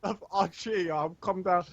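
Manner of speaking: high-pitched mock complaint. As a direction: pitch it up, whiny.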